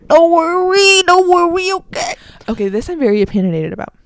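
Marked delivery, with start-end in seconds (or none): 0.1-2.1 high, loud singsong don't worry; high reassurance. Real, not acted. Promising listeners she'll research, high singsong. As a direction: sing it up high to calm listeners. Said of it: "I'll research".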